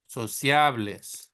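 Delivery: sociables slow, Spanish vowels; slow Spanish reading of sociables. Shown as a demonstration. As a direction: model sociables slowly. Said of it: "read it in Spanish".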